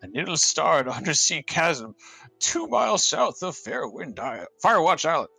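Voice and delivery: put-on solemn old man reading; a hint of an elderly scholar. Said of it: "old man voice".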